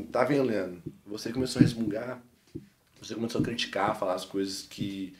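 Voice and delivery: gentle quiet rebuke from above; voice of God. Retold or imitated. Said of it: "aí Deus começou a falar comigo".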